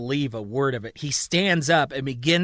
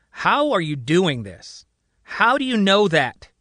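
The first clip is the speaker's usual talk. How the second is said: stunned demand; 5 semitones higher, 5 dB louder than usual. A narrator's reading. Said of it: "he demands".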